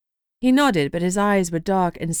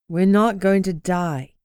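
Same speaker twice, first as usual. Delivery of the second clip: sighing; slower than usual. Acted. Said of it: "Esme sighed".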